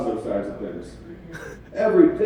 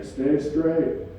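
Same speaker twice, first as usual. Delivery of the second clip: GPS voice; 4 semitones higher than usual. Retold or imitated. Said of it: "It just started saying".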